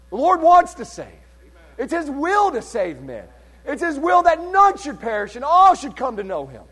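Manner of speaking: high, urgent pulpit plea; fervent preaching. Real, not acted. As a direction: raise the voice and plead God's will. Preaches with raised force.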